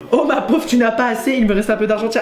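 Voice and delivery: high-pitched, hammed-up sympathy; mock pity. Friend pitying a classmate short of money, over-sympathetic. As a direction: coo with exaggerated pity.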